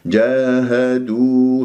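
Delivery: جاهدوا with both long vowels held; two-beat madd. Shown as a demonstration. Teacher reciting slowly for students. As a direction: draw out the a and u of جاهدوا evenly. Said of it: "مد طبيعي حركتين".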